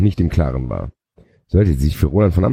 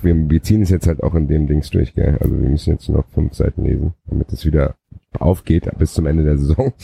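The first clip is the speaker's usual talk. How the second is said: normal talking voice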